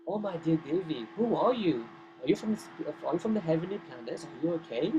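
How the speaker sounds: lilting, rising questions; concerned questioning. Retold or imitated. Friends asking the silent demigoddess who she is, concerned. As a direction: gently quiz the mysterious visitor. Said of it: "and they ask her".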